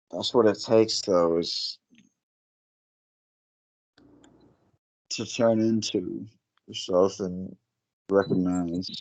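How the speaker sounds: sounding stoned, high. Agreeing with another speaker while lying tired in bed: sounding stoned. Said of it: "you sound stoned".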